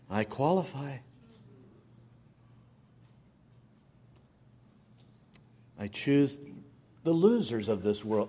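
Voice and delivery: gentle voice of God. Acted. God's reply voiced in sermon.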